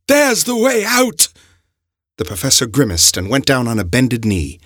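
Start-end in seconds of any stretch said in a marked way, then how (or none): 0.1-1.3 high, slow hopeful call; relieved call. A narrator's reading. The professor calls out the exit, high and slow. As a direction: point it out with relief.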